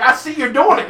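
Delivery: loud, high hammed-up accusation; mock furious neighbor; mock angry accusation. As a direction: call him out, hamming up the anger. Jordan gets mad in skit.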